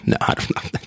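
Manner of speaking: hushed whisper, teasing the listeners. Real, not acted. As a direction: lean into the mic and whisper the tease. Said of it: "I don't know why I'm whispering".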